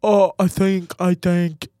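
halting character voice; Elon Musk attempt. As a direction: grope for the impression. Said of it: "How does he even talk?".

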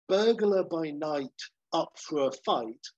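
slow, punchy trailer read; trailer tagline. Pretend. Reading the sequel's tagline, trailer style. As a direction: announce it like a movie poster.

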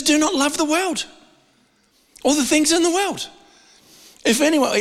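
scripture read aloud. Shown as a demonstration. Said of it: "But then it says".

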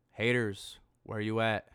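loud taunting call-out; calling out haters. Real, not acted. Taunting online haters with a loud call-out. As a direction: shout it at the doubters.

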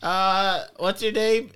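flat rote cashier. Acted. Clerk talks to lost kid.

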